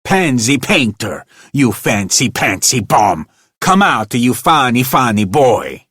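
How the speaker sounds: high, loud furious scream. A narrator's reading. Manager screaming at the old janitor, furious. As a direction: scream the insult at the booth. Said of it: "he screamed".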